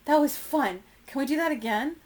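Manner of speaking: put-on high, loud, thrilled child voice; excited little kid. A narrator's reading. Baby gorilla begging for another toss, excited and high. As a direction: pipe up eagerly, high and loud.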